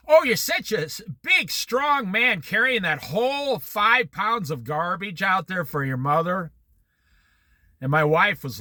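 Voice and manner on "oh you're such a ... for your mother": sarcastic mother. Retold or imitated. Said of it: "She's very sarcastic type of woman".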